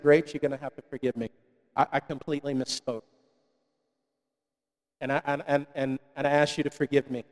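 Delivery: hushed, contrite plea to his wife; retold apology. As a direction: murmur it low, asking his wife's forgiveness.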